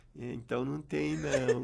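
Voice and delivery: hushed, soft, slow, almost under the breath. Retelling how the server answered: imitating someone speaking quietly. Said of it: "e foi baixinho e falou assim".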